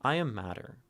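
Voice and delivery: "I am matter" as one understated phrase; lighter, unbroken reading. Shown as a demonstration. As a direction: run "I am matter" together gently, lifting AM. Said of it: "four ways to read it".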